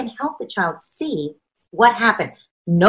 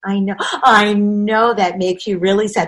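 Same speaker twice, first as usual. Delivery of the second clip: soothing parent. Acted. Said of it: "That parent says".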